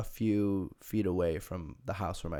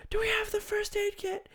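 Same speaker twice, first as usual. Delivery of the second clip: whisper. Retold or imitated. Sister calling, whispered.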